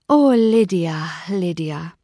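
drawn-out sigh of a name, fading to a whisper; lamenting. A narrator's reading. Sister sighing over Lydia's marriage, lamenting.

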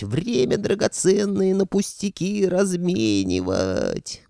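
high, loud howling lament; wailing ghost. Acted. Old ghost scolding Fedka, howling. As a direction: wail it like an ancient spirit.

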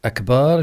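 أكبار said with a long, held "baa"; long vowel. Shown as a demonstration. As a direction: stretch the second syllable of أكبار. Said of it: "لأن أكبار في اللغة".

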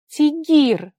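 high, loud surprised cry of a name; startled cry. A narrator's reading. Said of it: "воскликнула Ваара". (испуганно-удивлённый выкрик)

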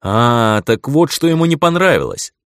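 surprised exclamation; dawning realization. Acted. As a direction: blurt it out as it clicks. Sudden realization.

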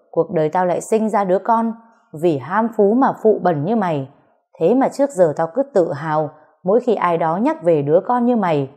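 disown him with every word; father berates son for betraying Tình; angry scolding. Acted. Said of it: "lớn giọng quát".

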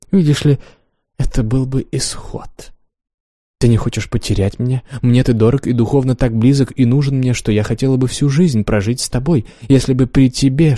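a lightly voiced teasing lover; Wanda voiced. Wanda's lines in reading.

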